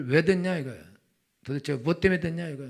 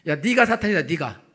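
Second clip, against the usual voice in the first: tag-back retort; 2 semitones higher, 8 dB louder than usual. Acted. Preacher retorts to the shrieking wife.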